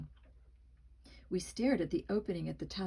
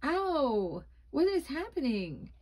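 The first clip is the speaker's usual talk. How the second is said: panicked cry; 7 semitones higher, 3 dB louder than usual. Acted. Mask burning, panicked boy.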